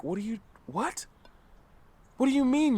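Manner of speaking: high-pitched, incredulous questioning; shocked disbelief. Retold or imitated. Speaker to friends on the phone about their lives back home, shocked. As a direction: react in shock, pitch jumping up. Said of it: "I would be shocked".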